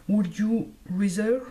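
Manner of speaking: English read with a heavy French accent, slowly; self-mocking French-accented English. Real, not acted. La youtubeuse lit le titre anglais, accent français. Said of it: "pardonnez mon super accent anglais".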